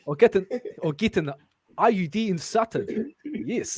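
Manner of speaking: attempted South African accent. Reader pressing on with the script, South African accent. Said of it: "work on my South African accent".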